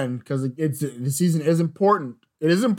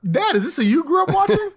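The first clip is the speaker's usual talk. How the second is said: put-on high, innocent child's voice; kid voice. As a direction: ask like a clueless little kid. Kid asking dad about Shaq.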